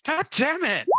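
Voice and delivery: loud, high burst of swearing; frustrated shout. Real, not acted. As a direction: curse a rotten dice roll at full voice. Player curses a bad roll.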